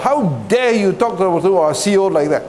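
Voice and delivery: mildly indignant mock reprimand; retold scolding. Officer punishes recruit for familiarity, retold scolding. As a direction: imitate an officer telling off a recruit. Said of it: "scolded him".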